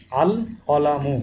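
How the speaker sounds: আল কলামু drawn out slowly, লাম sounded distinctly; ধীরে স্পষ্ট লাম সহ আল কলামু; clear separate lam. Shown as a demonstration. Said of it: "হরফটি স্পষ্ট এবং আলাদা করে উচ্চারণ করতে হবে".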